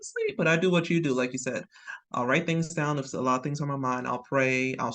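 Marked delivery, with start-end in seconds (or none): 0.0-0.4 mock sleepy complaint. Acting out waking at night.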